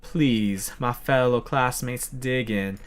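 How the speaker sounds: lightly attempted Southern country accent. Colonel invites classmates to dig in, country accent. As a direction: ease into a hint of country drawl. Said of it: "I should just stop that accent".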